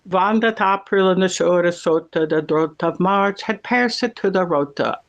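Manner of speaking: measured Middle English verse recital; old English accent, poem recited from memory; Middle English recitation. Shown as a demonstration. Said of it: "I can do the prologue to the Canterbury Tales".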